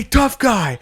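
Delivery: high, loud sneering villain voice; taunting Grinch. Acted. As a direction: call him out like a cartoon villain. First take of taunt.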